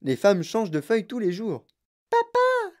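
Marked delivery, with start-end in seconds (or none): 2.1-2.7 much higher demanding shout; spoiled girl's cry. A narrator's reading. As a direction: yell for daddy like a spoiled child. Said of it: "cria Veruca Salt".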